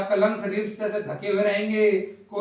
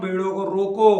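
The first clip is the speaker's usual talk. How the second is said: louder, firm order to stop the video; 5 dB louder than usual. Real, not acted. Teacher scolds a student to pause the video, firmly louder. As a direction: bark the order at the class. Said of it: "तेरे को बोल रहा हूँ".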